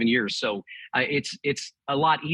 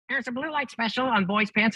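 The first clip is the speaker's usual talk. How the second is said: store announcer; 8 semitones higher than usual. Retold or imitated. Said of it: "the lady would go".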